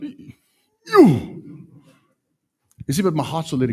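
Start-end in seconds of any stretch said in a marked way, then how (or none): 0.0-1.4 high, loud mock disgust. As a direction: recoil in disgust. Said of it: "I'm like".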